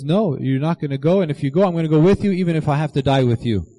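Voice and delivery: quoting an earnest, insistent vow; wholeheartedly insistent. Retold or imitated. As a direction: retell a heartfelt pledge, running on quickly in the middle. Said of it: "he meant it with all of his heart".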